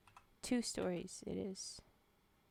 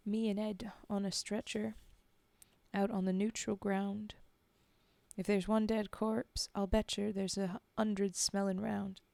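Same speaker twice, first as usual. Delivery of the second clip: put-on Cockney-ish accent; 5 dB louder than usual. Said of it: "that original accent".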